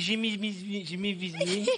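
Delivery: every vowel said as I, "J'ai mis, mis, mis"; only I vowels. Shown as a demonstration. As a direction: turn all vowels into I: "mis mis". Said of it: "tu fais que des I". (toutes les voyelles en I)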